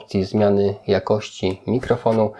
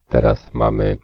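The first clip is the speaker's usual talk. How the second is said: much lower, synthetic male voice; male voice changer; 10 semitones lower than usual. Shown as a demonstration. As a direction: voice changer set to man. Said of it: "wzorzec o nazwie mężczyzna".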